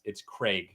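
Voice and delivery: Craig said as "crayg", rhyming with plague; long ay in Craig, like plague; British Craig. Shown as a demonstration. Explaining the English way of saying Craig, "crayg" like plague. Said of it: "I think in England it's".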